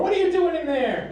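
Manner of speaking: high-pitched shouting through a door; acted high, urgent yell; mother banging on door. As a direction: demand an answer from outside the door. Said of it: "She starts banging on the door".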